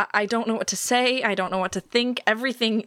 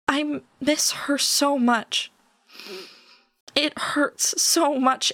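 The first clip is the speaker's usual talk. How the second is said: slow, higher, aching voice; grieving, near tears; 4 semitones higher, much slower than usual. Acted. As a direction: let the grief pull the words out slowly. Grieving daughter breaking down.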